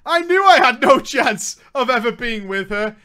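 ordinary talk, nothing marked

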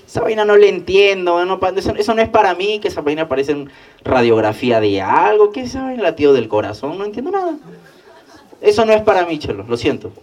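high, loud mock protest; exasperated refusal. Rechaza la propuesta de su amigo. (rechazo exagerado, agudo y fuerte)

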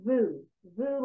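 vu begun with a voiced V; V sound. Shown as a demonstration. Teacher shows client how to start the breathing word, clear V sound. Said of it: "with a vav".

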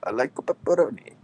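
stuttered fake Italian; lightly put-on Italian accent; mock Italian accent. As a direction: fumble through a cartoon Italian line.

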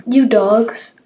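angry cry. Acted. Boy cursing the killers.

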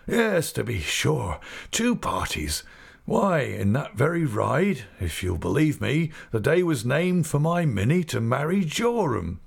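put-on old man delighted by a sudden memory; old Mister Omer.

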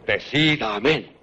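low, slow threatening command; low menacing order. Acted. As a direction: press it slowly, low and heavy. Rodrigo presses the king's hand. (orden lenta, grave y amenazante)

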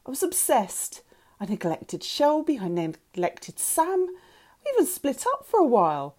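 high, emotional outpouring; anguished confession. A narrator's reading. Mother telling daughter she never gave up, anguished. Annie confesses her obsession.

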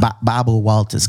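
"Bobwa" with the r's turned to w; mock speech impediment on "Bobwa Walters"; lisped Barbara Walters. Joking about being an interviewer, lisped "Bobwa Walters". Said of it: "You were like fucking Barbara Walters".

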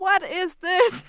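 high, loud, slow disbelief; mock-shocked "What is this?"; incredulous. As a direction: stretch out the outrage in English. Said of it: "Så man sådan der".

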